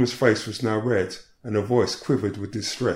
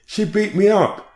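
"me" wailed high and loud, slowly drawn out; a woman screaming at the police, slow high-pitched wail; agitated scream; 11 semitones higher, 3 dB louder than usual. Retold or imitated. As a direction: scream the accusation, stretching "me". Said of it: "she screamed agitatedly".

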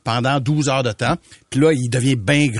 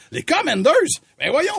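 mocking disbelief; 12 semitones higher than usual. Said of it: "il fait comme".

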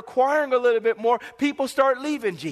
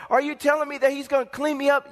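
quick, higher eager question; acted excitement, pitched up; excited new believer; 4 semitones higher, faster than usual. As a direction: play a convert rushing to ask. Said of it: "they get excited".

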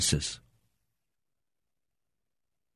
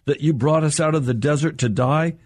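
higher and accusing, a whining crowd; complaining Israelites; 5 semitones higher than usual. Retold or imitated. Frightened Israelites complaining to Moses, higher and accusing. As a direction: throw the blame at Moses. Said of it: "They said to Moses".

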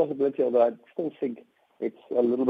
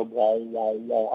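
bouncing spring noise; 3 semitones lower, much slower than usual. Shown as a demonstration. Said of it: "up and down".

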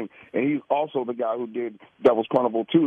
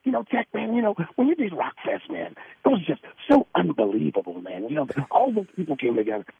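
lightly imitated radio host, pitched up at the start; Johnny Dare impression; 4 semitones higher than usual. Guest retelling how he mimicked the host for his friend, light impression. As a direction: mimic the host's higher voice, easing back down. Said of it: "I was trying to do you".

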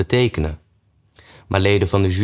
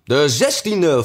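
sleepy Dormouse; 7 semitones higher, slower than usual. A narrator's reading. Dormouse adds a date.

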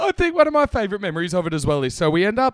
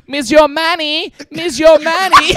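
loud, slow, high yell in a mock French accent; 10 semitones higher, 8 dB louder than usual. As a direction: bellow it across the room, drawn out. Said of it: "starts yelling out".

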